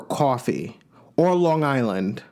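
slow, drawn-out New York accent. Shown as a demonstration. Host showing off a leftover hometown accent, slow New York accent. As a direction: stretch coffee and Long Island in New York vowels. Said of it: "the only times you hear my accent".

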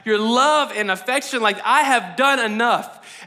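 emphatic, mildly exasperated protest; frustrated demand. Acted. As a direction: act out pressing for what is owed. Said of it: "you felt frustrated".

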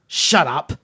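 mock guard's yell; shouty guard. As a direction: bellow it like an angry guard. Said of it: "he's got this shouty guy".

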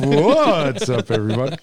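mock radio host greeting. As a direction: imitate the big broadcaster opener. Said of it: "radio voice comes out".

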